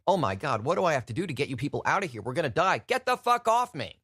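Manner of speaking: rushed, rising to a high yelled curse; mock panic building to a yell; panicking Santa. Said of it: "was just like".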